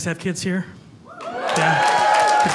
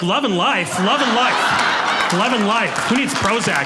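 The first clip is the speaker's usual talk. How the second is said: blissed-out sing-song; 3 semitones higher, 5 dB louder, slower than usual. Retold or imitated. Dreamy happy townsperson parody.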